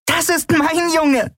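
slow, very high elated cry; bursting with pride. Acted. Nelen recognising her boy on the radio, proud cry. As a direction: exclaim it with proud joy. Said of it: "platzte fast vor Stolz und Glück".

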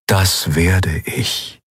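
very slow, measured answer; ghostly guide. Acted. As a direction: stretch it out like an apparition. Ghostly guide answers her plea.

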